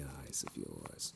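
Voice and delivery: deep, slow, soft ending; low unhurried voice. Acted. Creepy compliment drops low.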